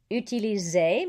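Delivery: UTILISER with a Z before the final "ay", R silent. Shown as a demonstration. Teacher giving an example, S as Z. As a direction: buzz the S in utiliser, drop the R. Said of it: "One S between two vowels has a Z".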